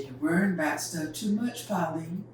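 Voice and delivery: easygoing, unhurried dad; calm and easy. Retold or imitated. Daddy calmly telling Pauline not to worry. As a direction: settle her down gently. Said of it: "My dad talked just like that ... All calm and easy".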